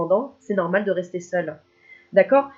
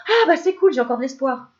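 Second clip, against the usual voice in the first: mock hopeful delight; 4 semitones higher, 4 dB louder than usual. Viewer cheered by the news.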